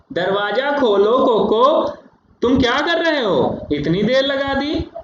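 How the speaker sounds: calling at the door. Shown as a demonstration. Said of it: "ऐसे".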